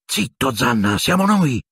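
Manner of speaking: calm the barking dog fast; hushing the dog. Acted. Hermione quieting Fang the dog, hurried and high.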